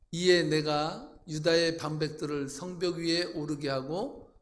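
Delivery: slow, measured congregational reading; scripture reading. Real, not acted. Pastor reading verses together with congregation, solemn recitation. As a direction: read it out formally, drawing out phrase endings.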